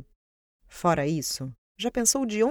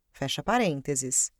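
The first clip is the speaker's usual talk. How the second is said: dictating; 3 semitones lower than usual. Acted. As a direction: drop the voice to read out the brackets. Reads the brackets aloud.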